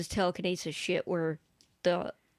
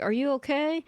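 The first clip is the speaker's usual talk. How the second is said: mom imitation; 7 semitones higher than usual. Imitating the mom's question.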